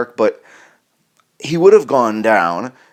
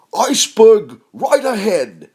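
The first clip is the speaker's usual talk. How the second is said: flat declaration; 10 semitones higher, 4 dB louder, slower than usual. Retold or imitated. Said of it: "he says it like that".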